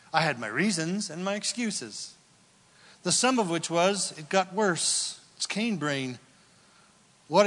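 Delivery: earnest spoken prayer. Acted. Pastor praying for the congregation, earnest prayer. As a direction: lead the room in humble confession.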